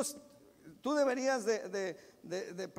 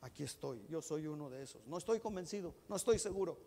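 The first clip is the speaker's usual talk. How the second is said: humble prayer; 7 semitones lower, 7 dB quieter, faster than usual. Pretend. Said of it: "tú necesitas decirle".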